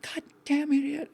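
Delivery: slow, high-pitched mock curse at himself; retold self-tirade. Recalling his old self-talk, a slow high mock curse. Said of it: "just tirade".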